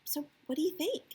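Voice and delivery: neutral tone. Shown as a demonstration. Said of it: "you wanna have this neutral tone".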